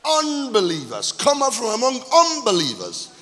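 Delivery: drawn-out, weighty pulpit proclamation; emphatic scripture reading. Real, not acted. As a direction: proclaim the verse, leaning on key words.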